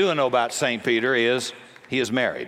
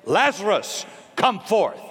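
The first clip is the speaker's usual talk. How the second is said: commanding call; 7 semitones higher than usual. Retold or imitated. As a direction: call him out of the grave with full authority. Jesus commands a dead man.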